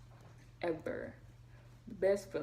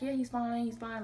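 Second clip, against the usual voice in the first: doctor's quick reassurance, slightly raised pitch; retold reassurance; 5 semitones higher than usual. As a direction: imitate a doctor calming a worried mother. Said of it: "he was trying to keep me calm".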